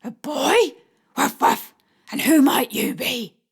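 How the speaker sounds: playful put-on dog voice with barks; woman voicing a china dog for a shy child; doggy voice. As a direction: play a friendly dog to coax a shy boy. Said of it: "doggy voice".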